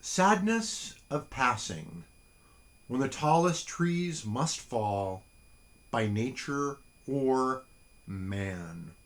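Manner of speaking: slow, measured haiku recital; a slow, hushed poetry reading; poem reading. Acted. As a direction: let each line of the poem settle. Reads a haiku aloud.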